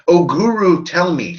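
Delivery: hammed-up worshipful ask; mock pleading. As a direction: play a devotee begging the master. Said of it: "not even like".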